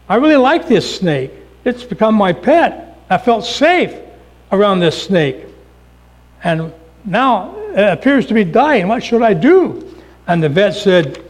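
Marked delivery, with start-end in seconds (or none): 0.1-9.9 higher-pitched, earnest retold plea; worried pet owner. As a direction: voice a worried owner asking for help. Distressed owner pleads with vet.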